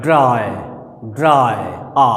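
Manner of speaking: ड्राई said alone, low and falling, then the bare आ; throat vowel demonstrated. Shown as a demonstration. Teacher showing the sound striking the throat, deliberate demonstration. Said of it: "ड्राई को बोलिए तो गले से टकराएगा".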